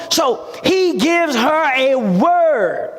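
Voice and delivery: emphatic preaching. Real, not acted. Preacher drives the point home.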